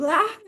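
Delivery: high sudden screech like a rubber chicken; toy chicken screech. Retold or imitated. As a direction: mimic the horrible chicken squawk. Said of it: "it goes".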